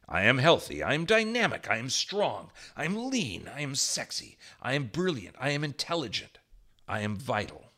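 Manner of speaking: emphatic chant of affirmations, opening loud, then easing; enthusiastic affirmations. Shown as a demonstration. Teacher modelling a daily "I am" exercise, enthusiastic affirmations. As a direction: declare each one with conviction. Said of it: "If you say that with enthusiasm".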